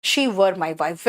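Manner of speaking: slow, drawn-out read; slow model sentence. Shown as a demonstration. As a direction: spell the words out slowly. (धीमे-धीमे बोलते हुए)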